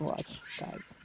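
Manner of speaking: breathless whisper to viewers. Real, not acted. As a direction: whisper so the birds don't hear. Whispering while filming birds.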